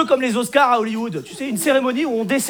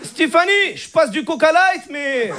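put-on high, wooing Moroccan accent; comic Moroccan-accented French, pitched up; Hicham; 5 semitones higher than usual. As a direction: flirt clumsily in a thick Moroccan accent. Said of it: "l'accent arabe".

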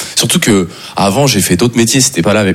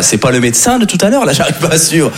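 high-pitched mock bafflement; confused, raised-pitch protest; puzzled passengers; 6 semitones higher than usual. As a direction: act out bewildered onlookers.

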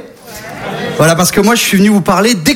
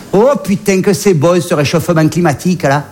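put-on Marseille accent. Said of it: "l'accent marseillais".

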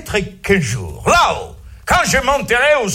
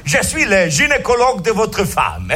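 bright higher doctor greeting; doctor persona; 3 semitones higher than usual. Acted. Gynecologist greets the husband, higher cheery doctor voice. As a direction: play the smug gynecologist welcoming the husband.

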